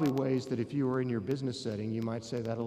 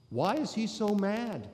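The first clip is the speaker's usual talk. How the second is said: higher pitched, pressing question with stress on "is"; raised question; 6 semitones higher than usual. Shown as a demonstration. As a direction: push the question up, leaning on "is".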